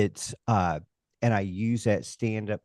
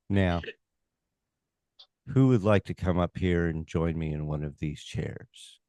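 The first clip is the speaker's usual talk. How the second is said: hypnotized dreamy voice; 4 semitones lower than usual. Retold or imitated. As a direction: lull the crowd like a dull hypnotist. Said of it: "how dare I walk in there?".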